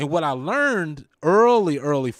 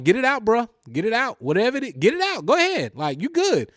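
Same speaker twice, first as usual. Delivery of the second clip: retold urging; 6 semitones higher than usual. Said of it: "I'm like".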